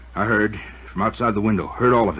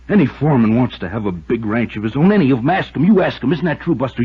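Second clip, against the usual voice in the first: rising rant; 4 semitones higher, 5 dB louder than usual. Acted. Foreman ranting, demanding agreement.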